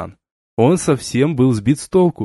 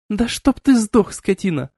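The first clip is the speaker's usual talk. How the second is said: outraged scream; 9 semitones higher than usual. A narrator's reading. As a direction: curse him in outrage. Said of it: "вскричала сильно возмущённая". (возмущённо вскрикивает)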